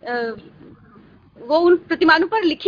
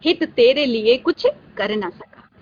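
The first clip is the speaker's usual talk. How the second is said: slow, drawn-out verse; poem recitation; slower than usual. Acted. Teacher quotes poem's ending to student, poem recitation. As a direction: recite it phrase by phrase, with a long pause midway. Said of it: "कविता के अंत में वो कहते हैं".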